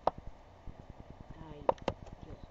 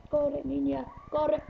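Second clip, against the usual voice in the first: urgent cheering; 6 semitones higher, 5 dB louder, slower than usual. Real, not acted. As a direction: cheer her on loudly. Urging character on.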